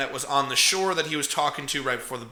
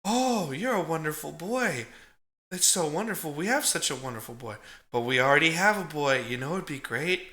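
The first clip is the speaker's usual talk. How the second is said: softer, a mild hint of a doting aunt; lightly voiced sweet aunt; 6 dB quieter than usual. Aunt greeting the orphaned boy, a hint of sweetness. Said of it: "And then it's just".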